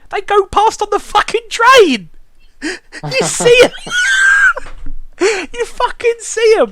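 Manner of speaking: laughing yell of disbelief; incredulous laughing shout. Real, not acted. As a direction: shout it out in amused outrage. Disbelief at the plot.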